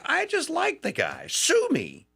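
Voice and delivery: a light mock-defiant sue me; defiant quip. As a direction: shrug it off, daring them. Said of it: "I'm like".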